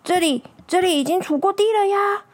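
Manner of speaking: a touch of bemused protest; puzzled old man. Acted. Old man questions his barking dog, mildly puzzled.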